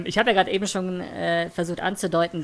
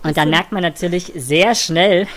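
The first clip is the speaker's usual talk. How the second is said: helium voice; 7 dB louder than usual. Real, not acted. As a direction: talk after inhaling helium. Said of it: "dass meine Stimme, äh, ein wenig höher wird".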